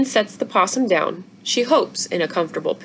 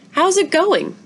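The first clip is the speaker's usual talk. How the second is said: higher, bright mother check-in; lightly voiced mom; 10 semitones higher than usual. A narrator's reading. Mother looks in on child.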